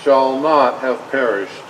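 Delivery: measured, solemn oratory, phrase by phrase; formal speech. Acted. President dedicating a battlefield cemetery, solemn formal oration. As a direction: deliver it like a president at a graveside.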